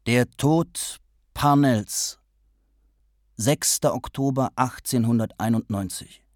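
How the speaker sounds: sehr langsam, gewichtig angekündigt; feierliche Ankündigung. A narrator's reading. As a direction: wie einen Gedichttitel verkünden. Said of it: "kündigte er an". (Hines kündigt sein Gedicht feierlich und sehr langsam an)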